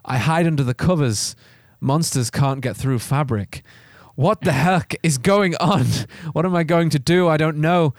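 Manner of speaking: intent horror-story reading; story narration. A narrator's reading. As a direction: narrate the frightening night with steady drive.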